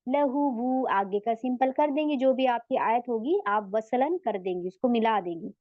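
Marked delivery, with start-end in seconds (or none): 0.1-0.9 "लहू वू" with the final oo syllable kept; connected reading. Shown as a demonstration. Teacher showing how to read without stopping, "लहू वू" in full. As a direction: read "लहू वू" straight, both syllables sounded. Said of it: "simple पढ़ेंगी".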